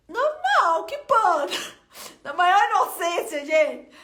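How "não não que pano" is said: high startled denial, louder; surprised. Retold or imitated. Answering the pastor on the phone, surprised and clueless. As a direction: caught off guard, clueless.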